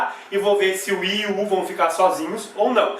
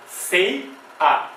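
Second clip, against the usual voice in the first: "Sei", a gap, then "a"; syllable by syllable. Shown as a demonstration. Teacher answering how the separation goes, syllable by syllable. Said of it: "Como é que vai ficar a separação".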